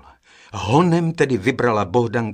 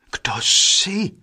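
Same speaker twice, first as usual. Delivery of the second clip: higher, louder question in narrated dialogue; startled question; 7 semitones higher, 5 dB louder than usual. A narrator's reading. Brothers spotting the stranger in their cave, startled question. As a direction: ask it abruptly, pitched up. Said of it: "ptali se jedním hlasem".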